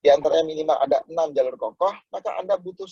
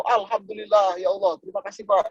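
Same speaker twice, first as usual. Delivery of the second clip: a touch higher, gushing gratitude at rejection; mock joyful thanks; 5 semitones higher than usual. Salesman thanking a man who refused him, mock joyful. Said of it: "Wah, orang gila nih".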